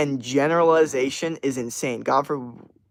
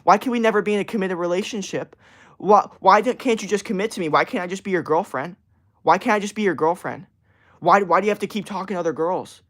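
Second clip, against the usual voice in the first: higher, pleading mock girlfriend voice; hammed-up nagging girlfriend; mocking whiny girlfriend; 5 semitones higher than usual. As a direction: whine like a clingy girlfriend begging for commitment. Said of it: "they get mad at me".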